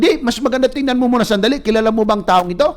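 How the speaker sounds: a son pushing his father to look, quick and eager. Retold or imitated. Son urging his hungover dad to watch, quick and eager.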